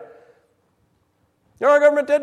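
indignant question to the congregation; rhetorical outrage. Acted. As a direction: lean in and demand it.

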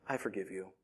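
tender forgiveness. Retold or imitated. Daughter's tender forgiveness, voiced softly.

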